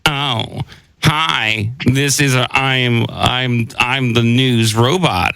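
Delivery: lightly voiced sassy robot, a bit slow; a hint of a sassy news robot. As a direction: play a prissy robot newsreader, barely changed from own voice. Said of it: "a little bit more sassy, like I was a sassy robot".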